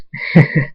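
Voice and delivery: brief mocking laugh; short villain chuckle. A narrator's reading. Thunderstorm mocking his captive, short chuckle. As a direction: chuckle before refusing the victim.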